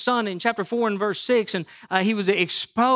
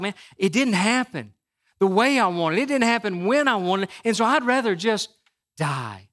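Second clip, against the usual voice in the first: pouting Jonah. Retold or imitated. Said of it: "The pouting of Jonah".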